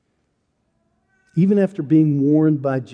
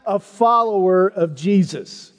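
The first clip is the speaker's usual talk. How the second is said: louder, higher, slowing to a pounding end; desperate insistence; 6 semitones higher, 4 dB louder than usual. Acted. Peter convincing everyone around the fire, loud and desperate. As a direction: hammer home each denial. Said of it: "He gave it his all to convince everyone".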